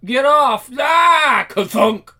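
loud high shout of get off; high shouted push-off. Acted. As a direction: yell as he hits the floor. Shove off the bed.

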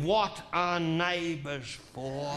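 drawn-out comforting punchline; mock-tender slow reassurance; slow soft reassurance. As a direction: soothe her slowly, a touch sly.

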